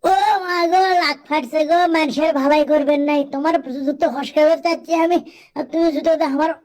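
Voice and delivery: high wailing complaint; crying out in pain. Acted. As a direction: wail about the kick. Kicked while helping, crying out.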